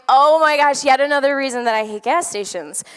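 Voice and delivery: loud burst of exasperation easing off; exasperated. Retold or imitated. Stuck at the pump, she vents her frustration loudly. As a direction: groan at yet another gas station hassle. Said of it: "And I'm like".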